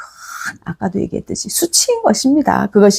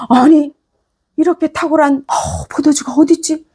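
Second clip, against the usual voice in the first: higher, astonished exclamation; amazed; 5 semitones higher than usual. Acted. The banquet master tasting the new wine, amazed. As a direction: gasp at the wine's quality. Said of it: "연회장이 감탄을 하면서".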